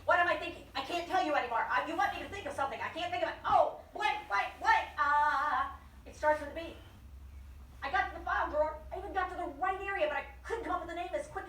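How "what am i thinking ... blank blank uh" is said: frantic brain. Retold or imitated. Brain struggling for a name.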